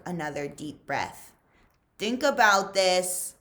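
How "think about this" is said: louder, urging yourself; firm self-command. Acted. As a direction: snap yourself to focus. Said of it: "he told himself".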